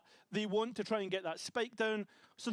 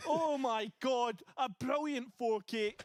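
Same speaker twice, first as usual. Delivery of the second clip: slow, higher, drawn-out amazement; awed exclamation; 4 semitones higher, slower than usual. Real, not acted. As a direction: savour the moment. Caster marvelling at four kill.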